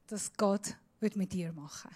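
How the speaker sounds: hushed, whispered line; soft whisper to the congregation. Shown as a demonstration. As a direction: whisper it like a secret. Preacher demonstrates God's whisper.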